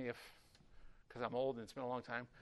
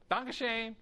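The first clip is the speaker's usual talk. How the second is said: "Danke schön" again, higher and louder, for a neighbor who did not understand; repeated louder; 7 semitones higher, 5 dB louder than usual. Retold or imitated. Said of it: "And he goes, "What?".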